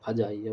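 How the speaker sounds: فجائیہ said as "fajaiya"; short a in the first syllable of فجائیہ; mispronounced with "fa". Shown as a demonstration. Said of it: "بہت سارے لوگ غلط pronunciation". (فجائیہ کو زبر سے "فَجائیہ" کہنا)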